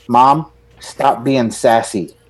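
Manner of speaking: slow, deliberate mock reprimand; lightly acted little scold; imitated scolding child. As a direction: draw it out like a kid telling mom off. Son scolding his mother, retold.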